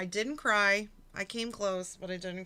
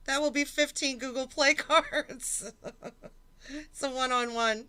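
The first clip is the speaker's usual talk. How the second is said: giggles breaking into the words; reading a donation line while laughing; laughing through it; 4 semitones higher, 4 dB louder than usual. Real, not acted. Streamer reads donation, laughing.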